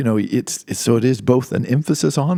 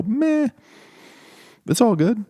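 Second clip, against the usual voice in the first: lazy, much higher mock shrug; shrugging meh; 13 semitones higher than usual. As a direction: toss it off like it doesn't matter. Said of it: "or you could just go".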